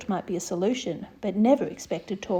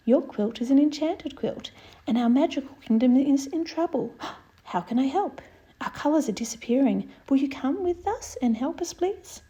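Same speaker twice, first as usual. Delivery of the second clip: princess pleading; 3 semitones higher than usual. Acted.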